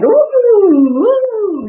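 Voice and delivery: squeaky high cry of a raindrop clinging on; a tiny raindrop yelping as the rapids toss it; scared little raindrop. Acted. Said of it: "He's like".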